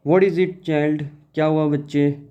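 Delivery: teacher voicing a mother asking her child; lightly voiced mother. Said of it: "she asked".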